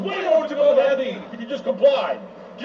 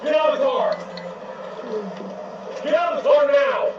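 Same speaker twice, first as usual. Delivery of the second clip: shouted command. Real, not acted. Officer shouting at driver.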